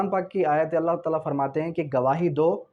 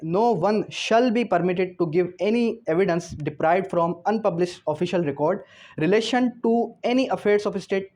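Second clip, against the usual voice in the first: slow, measured reading of the law text; slow statute dictation; much slower than usual. Shown as a demonstration. Teacher dictating the article to law students, slow and measured. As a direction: read each legal phrase slowly for students to note down.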